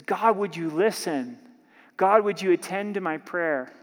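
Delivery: an earnest cry for help, God stressed; pleading prayer. Acted.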